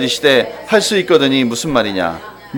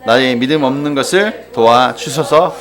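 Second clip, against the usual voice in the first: ordinary talk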